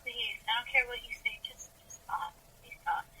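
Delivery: hushed mock plea, fading away; imitated soft pleading. Listener soothed by Friedrich's voice, softly pleading. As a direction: beg softly, as if entranced by the voice. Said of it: "you just be like".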